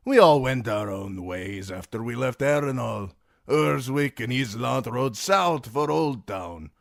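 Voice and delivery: Dornish sellsword telling it casually; Timion recounting. A narrator's reading. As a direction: Timion telling Brienne the gang's fate. Timion voiced at length.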